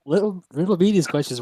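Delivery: high, loud mock witch; mock hag voice. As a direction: ham up the old hag. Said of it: "players mimic the hag".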